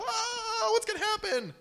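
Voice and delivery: high, wailing mock panic; panic mode. Believers in the storm crying out, hammed-up panic. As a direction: flap about like a headless chicken. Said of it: "We just go into panic mode".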